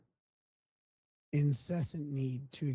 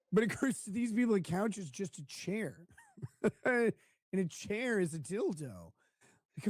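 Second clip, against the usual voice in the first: mocking voice; 5 semitones higher than usual. Mocking fat people.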